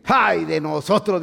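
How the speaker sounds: slow, mildly fearful lament; a light touch of alarm; frightened Philistines. Acted. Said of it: "dijeron aquellos".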